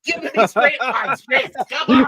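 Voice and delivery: laughing while pleading; can't keep a straight face. Real, not acted. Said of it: "can't even say it with a straight face".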